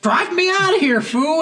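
high, loud hammed-up getaway shout; mock frantic order. Gang member to his driver after shooting, mock frantic shout. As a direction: repeat the catchphrase with rising hysteria. Same demand, escalated.

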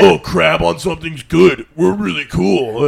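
slow, drawn-out mock boasting; mocking imitation. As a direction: parody smug locals, dragging the words. Mocks Baltimore locals' pride.

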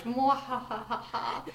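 slow evil mwahaha laugh; mad scientist cackle. Acted. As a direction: cackle like a cartoon villain. Villain laying out evil plan.

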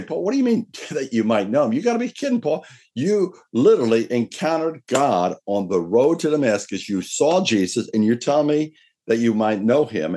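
you can't be serious, Paul; laughing in disbelief at Paul; incredulous disbelief. Retold or imitated. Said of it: "people could say".

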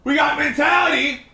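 yelling announcement. Acted. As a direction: bark the intro like an angry host. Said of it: "I'm gonna stop yelling".

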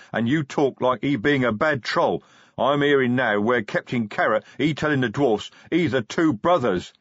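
loud, indignant troll tirade; troll defending his god, furious; angry troll rant. Acted. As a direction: lash out at the boss in broken speech. Troll's angry outburst at Vimes.

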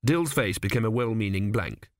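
ordinary delivery

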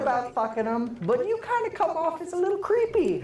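high, light pixie voice; girl voice for the pixie. Acted. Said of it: "my girl voice for the pixie".

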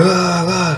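imitated retching. Man throwing up on the grass, imitated retching. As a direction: act out throwing up.

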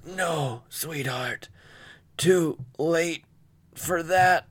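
the father whispering his last words to his daughter; lightly voiced dying father.

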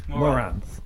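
lisped at the end, sneering; Vizzini lisp. Shown as a demonstration. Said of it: "say it with a lisp at the end".

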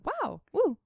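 high, bright mock whoop; excited cheer. Cheering the exclamation point at the end of a word, excited.

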